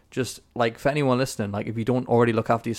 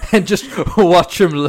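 laughing; 8 semitones higher, 10 dB louder, slower than usual. Real, not acted. Laughing while teasing.

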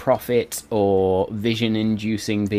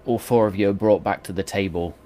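ordinary talk, nothing marked

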